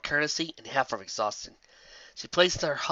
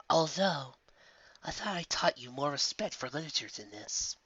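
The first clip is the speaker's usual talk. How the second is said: dry, flat scolding from a mentor; deadpan, a touch softer, teasing reproach; 2 semitones higher, 6 dB quieter than usual. Acted. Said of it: "she said flatly".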